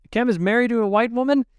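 shocked, accusing demand; accusing outburst. A narrator's reading. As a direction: fling the question at her like an accusation. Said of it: "more of an accusation than a question".

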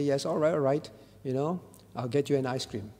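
low, soft, tender father's reply; moved with love. Retold or imitated. Loving father gives in to his child, tender. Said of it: "heart is moved in love and say".

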